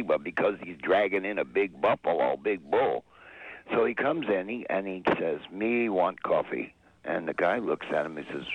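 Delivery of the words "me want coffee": slow, halting mock Tonto voice. Old man orders coffee at a Texas diner, slow mock Tonto voice. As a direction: drag out the broken English like Tonto, lightly. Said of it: "in a Tonto kind of voice".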